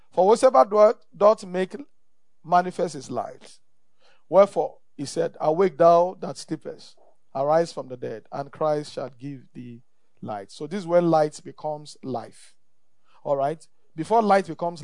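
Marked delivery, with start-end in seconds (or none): 0.1-10.5 scripture reading. Real, not acted. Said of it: "Look at that".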